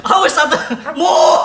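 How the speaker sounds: high, loud laughing moo; mock cow moo. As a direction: moo it out as a joke.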